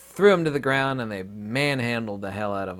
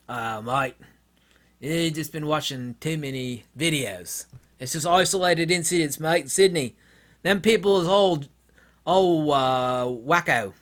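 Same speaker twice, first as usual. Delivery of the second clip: put-on Australian accent, rising higher midway; dismissive Aussie, hammed up; mock Aussie; 4 semitones higher, 4 dB louder than usual. Australians saying he watches too many videos, mock Australian accent. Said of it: "those Australians telling me".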